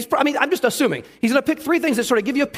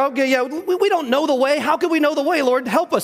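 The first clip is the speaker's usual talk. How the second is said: mock panicky Thomas; 5 semitones higher than usual. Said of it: "he just sounds panicky".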